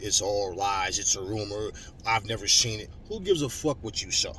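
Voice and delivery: ordinary talk, nothing marked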